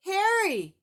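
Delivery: high, loud monster call; excited monster shout across the street; Cookie Monster yelling. Acted. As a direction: holler his name like a furry monster. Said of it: "yelled Cookie".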